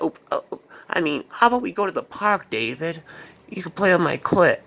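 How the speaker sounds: lightly voiced dreamy woman; Sarah. Woman combing David's hair, lightly voiced coaxing. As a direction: coo it a little high, lightly imitating her. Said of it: "she was like".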